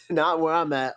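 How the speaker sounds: amused repeat with a laugh. Real, not acted.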